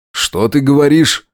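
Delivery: suddenly uneasy husband; alarmed question. A narrator's reading. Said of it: "со страхом спросил он".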